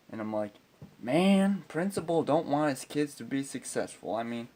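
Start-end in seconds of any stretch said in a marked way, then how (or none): 1.0-4.1 mock outrage. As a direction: burst out in scandalized disbelief.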